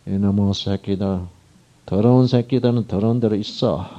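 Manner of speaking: slowed, scornful voice of an angry God, mildly acted; wrong way, mock disgust at the wicked; nasty contemptuous reading. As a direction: read it as a spiteful curse, not overdone. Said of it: "이렇게 읽으면 김새요".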